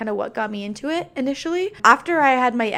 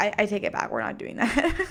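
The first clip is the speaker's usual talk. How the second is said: ordinary talk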